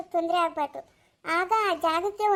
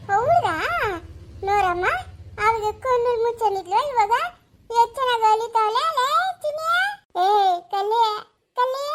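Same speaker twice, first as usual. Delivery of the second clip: delighted cooing; 5 semitones higher, 4 dB louder than usual. Acted. Grandmother cooing at the baby.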